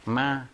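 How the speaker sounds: 마 at an easy everyday speaking pitch; 마 held evenly in the natural speaking range; comfortable level tone. Shown as a demonstration. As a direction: demonstrate Vietnamese 마 level and relaxed. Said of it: "보통 일반 말하는 편안한 소리를".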